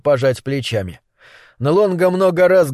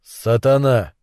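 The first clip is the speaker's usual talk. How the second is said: sincere; 4 semitones lower, slower than usual. Acted. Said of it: "со всей искренностью".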